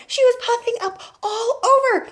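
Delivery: high, loud excited narration; astonished. A narrator's reading. Telling how grandma inflates, loud astonishment. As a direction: raise pitch and volume as she swells.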